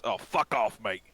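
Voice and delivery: mildly heated, curt dismissal; angry brush-off. Acted. Arguing human to an intruder, irritated. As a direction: tell them off with some force.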